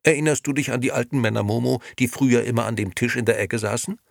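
high, loud indignation, climbing; loud accusing outburst. A narrator's reading. Liliana exposes Nino to Momo, loudly accusing. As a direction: accuse him, rising to a high cry. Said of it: "rief Liliana und klapperte mit den Töpfen".

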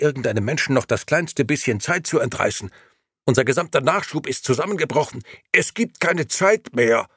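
frantic grey gentleman crying out that the world stands still; excited shout. A narrator's reading. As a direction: burst in with alarming news, voice climbing. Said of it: "aufgeregt gestikulierend ... und rief".

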